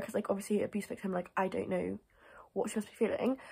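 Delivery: hushed, breathy whisper on a delicate point; softly whispered, careful; whispered aside. Real, not acted. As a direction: drop to a whisper as if it's too sensitive to say aloud. Sensitive aside about abuse victim.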